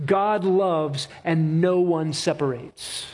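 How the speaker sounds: slow, measured, each clause weighted; solemn litany. Acted. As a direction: lay down each line like a verdict. Rhythmic litany of God's acts.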